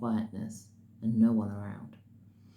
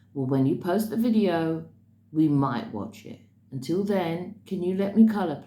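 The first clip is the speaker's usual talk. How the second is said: imitating a fed-up child, louder and higher; retold firm telling-off, voice raised; exasperated little girl; 4 semitones higher, 5 dB louder than usual. Little girl tells the lady to let her color, exasperated.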